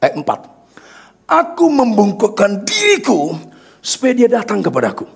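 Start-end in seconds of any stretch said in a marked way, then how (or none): 1.2-5.1 emphatic preaching. Real, not acted. Preacher telling the congregation how God stooped down, emphatic preaching. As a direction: preach it, stretching the big words.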